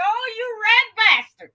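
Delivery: retold sassy clapback; sassy comeback. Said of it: "I was like".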